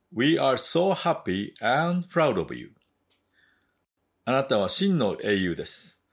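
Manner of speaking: slow, deliberate English with Japanese translation after; measured bilingual storybook reading; story narration. A narrator's reading. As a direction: read a folk tale to language learners.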